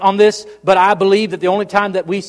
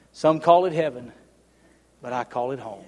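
much softer, lower, drifting away to near nothing; fading hush; 7 semitones lower, 5 dB quieter than usual. Shown as a demonstration. Preacher closing the song lyric, fading to a hush. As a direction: let the last line die to a hush. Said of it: "read the words to you".

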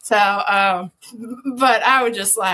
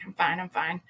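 playing it cool; 3 semitones lower, 8 dB quieter than usual. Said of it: "trying to play it cool".

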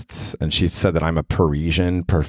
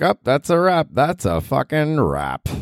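dramatic verdict; 9 semitones higher, slower than usual. Retold or imitated. Mock verdict at a bar.

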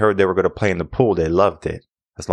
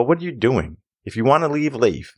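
higher-pitched mock exasperation; retold exasperated challenge; 6 semitones higher than usual. Swim teacher to kids he just rescued, retold exasperation. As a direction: act out a teacher's incredulous scolding.

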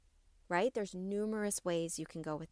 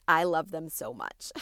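louder, beaming declaration of love; excited; 2 semitones lower, 6 dB louder than usual. Real, not acted. Host telling listeners why she loves affirmations, excited and louder. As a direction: say it with real excitement. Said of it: "As you can hear the excitement in my voice".

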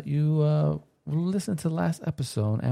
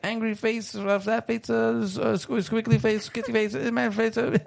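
rattling off a list in a climbing high voice; breathless high-pitched run-on list; running out of breath; 7 semitones higher than usual. Real, not acted. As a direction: race through it on one breath, pitch creeping higher. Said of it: "catch my breath".

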